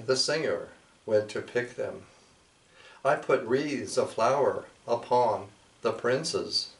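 measured, solemn poetry reading; poem recital. Acted. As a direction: read the old poem with ceremony. Recites a translated Nahua poem.

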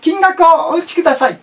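sing-song automated prompt; ATM voice. Retold or imitated. ATM speaking.

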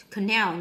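"canal" stressed on its second syllable. Shown as a demonstration. Teacher marking word stress for students, second-syllable stress on "canal". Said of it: "nhấn âm hai".

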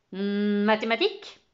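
interrogation forte et traînante; question soupçonneuse. Acted. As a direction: demande fort, en directeur méfiant. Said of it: "interrogea-t-il en fusillant du regard". (question appuyée et méfiante)

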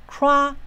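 "crack" held on a high, level pitch; a high, sustained "crack"; primary stress high. Shown as a demonstration. Teacher repeating the stressed syllable for students, "crack" high and held. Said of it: "中音节最高".

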